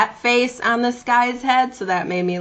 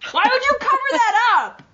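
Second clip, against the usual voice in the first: pitched way up in disbelief; even higher shocked; 14 semitones higher than usual. Real, not acted. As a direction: push it higher, more aghast. Repeats even higher, more incredulous.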